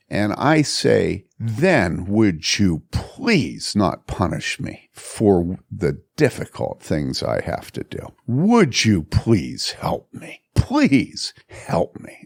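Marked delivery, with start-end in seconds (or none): 1.4-10.4 slow, choked pleading; a broken father pleading with his family; tearful plea. Retold or imitated. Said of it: "And I was just crying". 10.5-12.2 slow, broken whisper; begging his family in a tearful whisper; whispered plea. Retold or imitated. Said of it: "And I was just crying".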